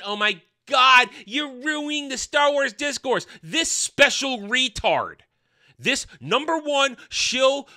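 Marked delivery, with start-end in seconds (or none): 0.1-3.3 higher, whiny mock fan; a mocking high-pitched whine; mock complaint. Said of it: "they wanna complain".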